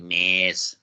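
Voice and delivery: low-pitched movie-character impression; Dan Aykroyd. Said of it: "like Dan Aykroyd and the Blues Brothers saying".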